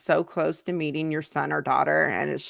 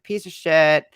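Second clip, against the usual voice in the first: louder, slowing into a sneering jab; mocking insult; 7 dB louder, slower than usual. A mock yell at the hater repeating their insults. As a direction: throw the insult back as they said it. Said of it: "cussed out by somebody saying".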